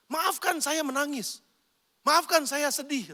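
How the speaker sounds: slow, mildly tearful widow's apology; lightly acted sorrow, slowed down; retold tearful apology. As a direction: imitate a weeping widow, drawing out the words. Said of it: "dia lagi nangis".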